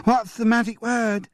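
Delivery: high, teasing grandfather voice; playful game voice. Acted. Grandfather teasing the twins, high playful voice.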